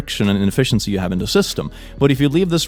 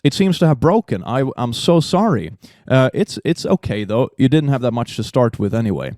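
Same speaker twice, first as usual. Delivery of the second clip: sassy. Pretend. Sassy teacher roast.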